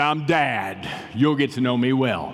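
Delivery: slow, put-on radio announcer voice. Speaking to the unborn baby through headphones on a pregnant belly, in his best radio voice. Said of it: "I gave it the best radio voice I could give".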